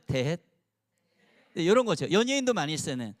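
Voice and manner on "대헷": cutesy word. Shown as a demonstration. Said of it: "두 글자 낱말 따라합니다".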